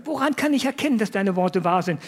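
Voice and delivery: mock-astonished old priest doubting. Zacharias asks the angel for a sign, astonished. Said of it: "Fragt der Zacharias sehr erstaunt".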